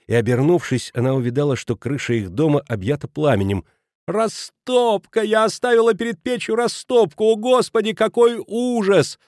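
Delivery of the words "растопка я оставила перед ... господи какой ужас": much higher, slowed, terrified cry; horrified as the house burns; panicked cry. A narrator's reading. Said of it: "закричала она".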